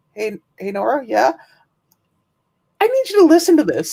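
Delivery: high excited call; boss calling. Retold or imitated. Boss calling a colleague over, high call. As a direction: call her over urgently. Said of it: "my boss went".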